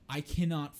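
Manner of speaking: high, loud, drawn-out excitement with a laugh; gleeful bloodthirsty eagerness. Acted. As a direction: relish it slowly, loudly, laughing midway. Acting out eager player's reaction.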